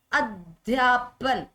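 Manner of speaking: अध्यापन in slow separate syllables, a-dhyaa-pan; slow sounding-out. Shown as a demonstration. Teacher spells it out for students, slow syllabled अध्यापन. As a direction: break अध्यापन into long, spaced syllables. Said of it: "अध्यापन नहीं".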